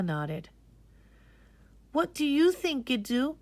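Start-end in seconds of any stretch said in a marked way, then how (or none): 1.9-3.4 put-on high, anxious boy's question; a boy nervously asking his grandfather. Boy asks grandfather his opinion, anxious and high. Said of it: "Majid asked anxiously".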